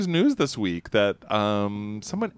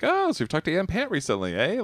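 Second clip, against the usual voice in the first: higher-pitched playful needling; light mock-innocent teasing; 5 semitones higher than usual. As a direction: tease her with a knowing question. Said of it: "and I'm like".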